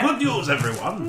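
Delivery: high, slow comic announcement; hammed-up high-pitched proclamation; catchphrase voice. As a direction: draw it out high as a jokey catchphrase. Catchphrase in a put-on voice.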